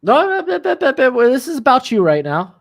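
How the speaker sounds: high, loud no no no; excited protest. Real, not acted. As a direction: shout the refusal playfully. Protesting playful refusal.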